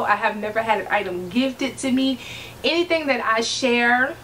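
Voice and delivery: lightly lawyerly, spacing out each denial. Real, not acted. Vlogger denying sponsorship claims to viewers, mild lawyer voice. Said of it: "did I just bring my lawyer voice up".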